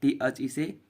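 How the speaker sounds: "this is the", stretched out very slowly, word by word; very slow spelled reading. Shown as a demonstration. Teacher reads the line very slowly to young pupils. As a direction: drag out "this is the" for the class to follow. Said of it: "I S से is".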